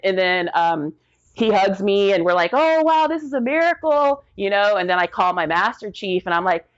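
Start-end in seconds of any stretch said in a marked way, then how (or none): 2.5-4.2 high wonder, wow stretched; amazed joy. Retold or imitated. The couple hugging, high amazed wonder. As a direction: gasp it like a miracle.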